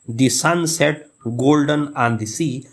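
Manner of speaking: "The Sunset Golden on the Sea" slowly, with Golden strong and long; metrical stress demo. Shown as a demonstration. Teacher reading a poem line for anapest, slow metrical stress. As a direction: go light on "The Sunset", lean on "Golden". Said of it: "गोल्डन strong भी पढ़ा और लंबा भी पढ़ा".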